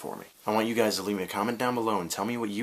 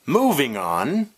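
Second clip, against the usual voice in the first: louder, slow, rising "Moving on!"; drawn-out segue call; 5 semitones higher, 6 dB louder, much slower than usual. Acted. Vlogger belting a slow segue to viewers. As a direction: stretch the segue out and belt it.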